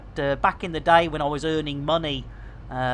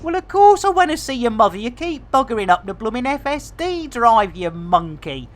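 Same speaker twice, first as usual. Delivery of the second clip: exasperated retort; 5 semitones higher than usual. Acted. Acted quarrel with Jason.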